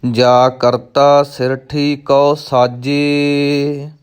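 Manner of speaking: slow verse reading with long-held line endings; measured Gurbani recitation; scripture recitation. Shown as a demonstration. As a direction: recite each phrase deliberately, stretching the last vowel.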